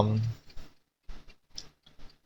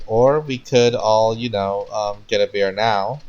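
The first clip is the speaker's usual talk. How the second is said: hesitant; 2 semitones higher, 3 dB louder, slower than usual. Acted. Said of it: "Ryoga stopped her".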